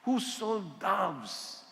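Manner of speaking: drawn out, very slow, stretching each word; dramatic slow scripture read. Shown as a demonstration. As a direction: read it slowly for weight. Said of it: "Ito na".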